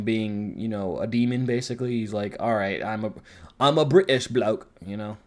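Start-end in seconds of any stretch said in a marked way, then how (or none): 2.4-4.7 a light mock British accent on British bloke; a half-hearted British bloke impression. Quoting the demon's admission to Riri in a lightly mocked British accent. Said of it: "It is a British accent".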